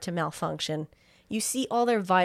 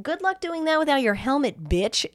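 louder, sassy diva attitude; sassy drag queen; 5 semitones higher, 3 dB louder than usual. Retold or imitated. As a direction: serve it like a fierce drag queen. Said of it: "Hal is serving cunt".

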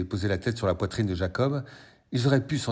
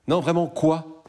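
much higher, insistent and eager; eager pleading; 10 semitones higher, 6 dB louder, slower than usual. Acted. Boyfriend pressing his girlfriend to reveal her secret, eager. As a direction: beg her to spill it.

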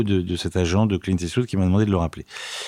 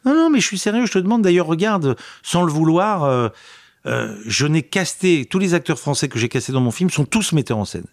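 much higher, eager voice of the director; a director earnestly convincing a new actor, excited and high; excited retelling; 8 semitones higher than usual. Retold or imitated. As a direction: replay his insistence with lifted pitch. Retold director insisting he's serious.

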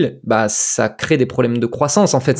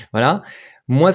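ordinary talk, nothing marked

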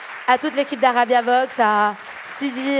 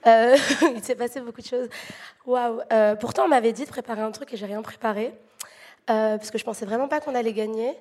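hoarse voice. Real, not acted. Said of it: "J'ai la voix cassée parce que j'ai beaucoup crié".

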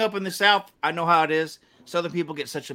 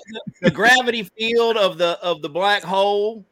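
lightly put-on Southern accent; 2 semitones higher than usual. Smart Southerner explaining black holes, in a mock Southern accent. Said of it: "you say it in a Southern accent".

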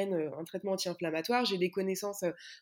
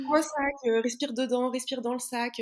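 mock advice; 3 semitones higher, 3 dB louder than usual. Retold advice to breathe in a bag.

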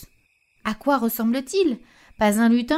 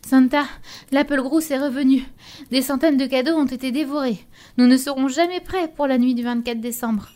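out of breath; 4 semitones higher than usual. Acted. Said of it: "déboula essoufflé".

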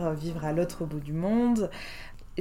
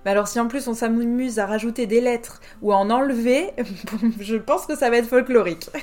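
amused dismay; 3 semitones higher, 6 dB louder than usual. Retold or imitated. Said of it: "Je me suis dit".

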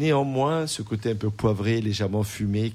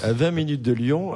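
laughing; 5 semitones higher than usual. Real, not acted. Laughs after lion pun.

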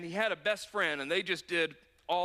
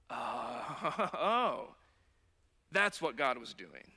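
laughing realization; 5 semitones lower, much slower than usual. Acted. Realizing with hindsight.

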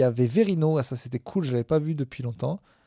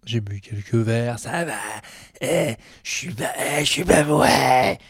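trying to sound sober; 4 dB louder than usual. Acted. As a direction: insist you're not drunk, slurring. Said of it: "Dit une personne qui vit dans la rue".

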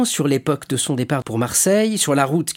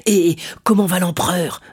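raised pitch, keen to know; lively, eager question; 6 semitones higher, 4 dB louder than usual. A narrator's reading. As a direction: ask with quick interest. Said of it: "demanda-t-il vivement". (question posée vivement)

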